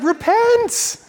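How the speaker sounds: high, drawn-out command; navigator's call. Retold or imitated. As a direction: call it out to the crew. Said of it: "he's like".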